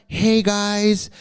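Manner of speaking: lightly put-on bubbly fan voice; mock a breathless happy client; a hint of an over-eager reviewer gushing. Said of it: "sorry for the voice".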